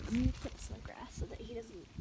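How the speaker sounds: whispered aside; whispering. Real, not acted. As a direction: whisper it to yourself. Quiet aside.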